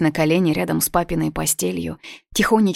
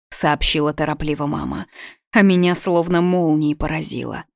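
plain reading voice

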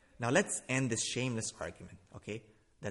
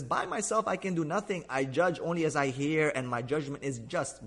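quoting scripture aloud; 3 semitones higher, 4 dB louder than usual. Retold or imitated. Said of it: "He says".

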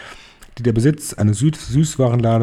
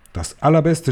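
higher, eager crowd shout; higher, eager crowd cry; 6 semitones higher than usual. Acted. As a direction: shout it back in greed. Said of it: "schrien sie".

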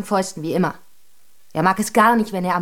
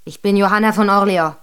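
indignant, raised and emphatic; fed up; 2 semitones higher, 3 dB louder than usual. Acted. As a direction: put your foot down, affronted. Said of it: "Da wurde es der Miss zu bunt".

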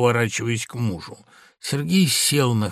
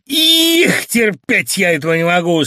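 higher, louder cry through gritted teeth; angry cry; 4 semitones higher, 6 dB louder than usual. Acted. Wife at her husband's accusation, furious outcry. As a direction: burst out in rage. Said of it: "скрипнув зубами, вскрикнула".

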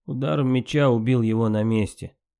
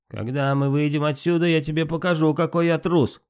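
rising angry threat, climbing higher; 6 semitones higher than usual. A narrator's reading. Bragi threatens Loki, rising in mild anger. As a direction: Bragi flares up at the insult. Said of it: "краснея от гнева".

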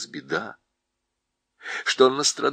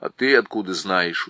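удивлённо; 3 semitones lower, 4 dB louder than usual. Acted. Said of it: "удивился Шаста".

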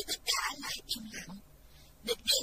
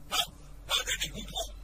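shout. A narrator's reading. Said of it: "Lỗ Khôn hét lên".

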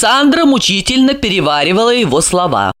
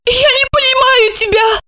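very high, squeaky cry; squeak. A narrator's reading. Asya squeaks at Gorokhov in confusion, very high. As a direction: squeak it out, flustered. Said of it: "пискнула Ася".

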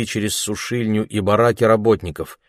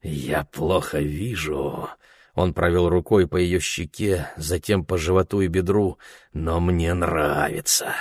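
put-on leering drunk; 3 semitones lower than usual.

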